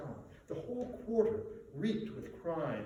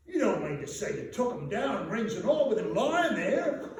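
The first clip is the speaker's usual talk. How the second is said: higher, louder disbelief with a laugh; amazed Joe; 7 semitones higher, 9 dB louder than usual. Acted. Joe asking the charwoman, amused disbelieving voice. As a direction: marvel at it, chuckling.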